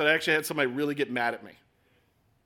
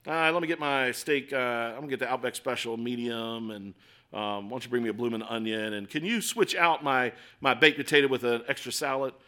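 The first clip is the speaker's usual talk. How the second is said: casual restaurant order; 5 semitones lower than usual. Retold or imitated. Preacher mocking a diner placing an easy order, offhand and breezy. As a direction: rattle it off like ordering at a steakhouse. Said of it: "like you and I place an order at Outback".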